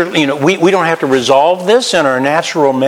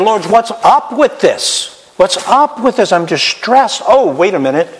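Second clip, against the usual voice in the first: higher, pleading complaint to the Lord; distressed prayer; 7 semitones higher than usual. Retold or imitated. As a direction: question God in distress. Praying complaint to God.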